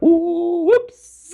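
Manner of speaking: very high caught-out ooh; high mock whoops. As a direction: squeak it up high like a naughty culprit. His guilty reaction, retold.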